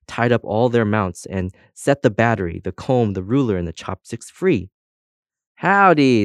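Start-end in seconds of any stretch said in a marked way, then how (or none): 5.6-6.2 high, loud cheery greeting. A narrator's reading. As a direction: hail newcomers in a cheery cowboy way. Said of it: "said a cheery voice behind them".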